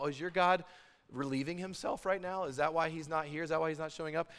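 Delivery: lightly mocking questions; sarcastic. Elijah asking Baal's prophets about their absent god, lightly sarcastic. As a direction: needle them with feigned innocent curiosity. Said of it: "he gets really sarcastic".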